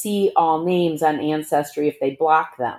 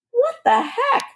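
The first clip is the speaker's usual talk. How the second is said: laughing. Retold or imitated. Baffled by relatives list.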